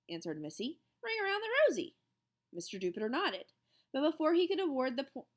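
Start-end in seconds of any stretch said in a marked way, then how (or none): 1.0-2.0 proud answer. A narrator's reading.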